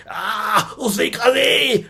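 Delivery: cri aigu, voix changée, affolé. Retold or imitated. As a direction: pousse un cri aigu d'effroi. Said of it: "Il fait". (cri aigu d'effroi de Kinta écrasé)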